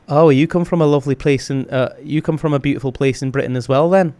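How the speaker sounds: a hint of a friendly Scottish woman. Retelling a Scottish tea shop chat, mild Scottish imitation. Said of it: "she was just proper like".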